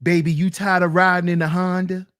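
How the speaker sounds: fast, put-on smooth voice; mock smooth pickup line. Streamer mocking rich guys wooing women, in a slick put-on voice. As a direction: flirt like a slick rich guy.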